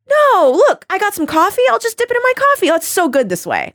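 quoting a kind partner in a high, quick voice; high sweet voice. Retold or imitated. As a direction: play the sweet reassuring boyfriend, up high. Sweet boyfriend reassuring her.

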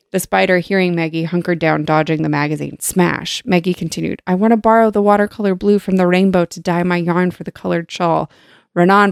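expressive read-aloud, characters lightly voiced; story narration. A narrator's reading. Podcaster reading the spider chase to co-host, story narration. Reads book passage aloud.

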